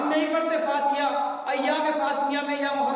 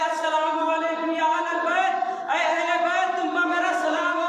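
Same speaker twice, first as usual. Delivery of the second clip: raised, ringing salam called at the door; called-out greeting; 3 semitones higher than usual. Retold or imitated. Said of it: "सलाम क्या करते थे दरवाजे फातिमा पे".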